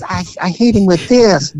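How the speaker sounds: stammering mock-tearful voice; lightly acted crying; imitated tearful confession. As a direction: imitate a woman confessing through tears. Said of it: "through her tears".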